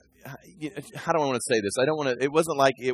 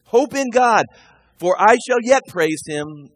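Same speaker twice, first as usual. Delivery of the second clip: urging his soul; 5 semitones higher, 5 dB louder, slower than usual. Acted. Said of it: "See, he's talking to himself".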